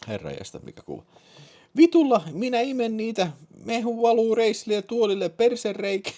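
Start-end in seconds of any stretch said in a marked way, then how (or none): 1.8-6.1 very high, louder falsetto; excited woman caller. Acted. (kiihtynyt naisääni korkeassa falsetissa)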